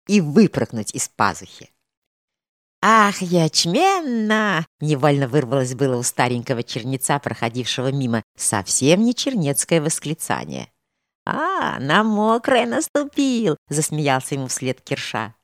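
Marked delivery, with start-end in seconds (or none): 2.8-4.7 put-on drawn-out high cry of an old monk; old monk's exclamation. A narrator's reading. Old monk startled by the dancing woman, slow high exclamation. 11.3-13.6 high, slow teasing call; mocking jibe. A narrator's reading. Kirsha mocks the passing monk, high slow teasing call.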